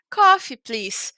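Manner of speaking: slow, blunt two-word order; just bark the order, no frills; curt order. Shown as a demonstration. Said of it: "uma maneira mais simpática de dizer". (pedido seco e lento)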